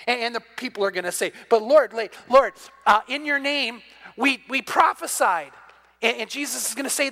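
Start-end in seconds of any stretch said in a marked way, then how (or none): 1.5-5.5 mock pleading. Pleading crowd at judgment.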